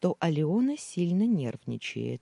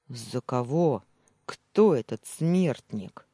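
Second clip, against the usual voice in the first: louder, slow, menacing rumble; rumbling threat; 5 dB louder, slower than usual. Acted. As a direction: growl it out like a threat. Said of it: "пророкотал Тимур".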